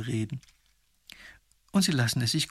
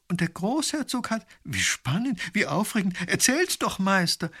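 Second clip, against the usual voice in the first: high, breathless eager pleading; eager excitement; 7 semitones higher, 4 dB louder than usual. Acted. Lady urging the painter to tell the tale, eager. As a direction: beg for the story, thrilled.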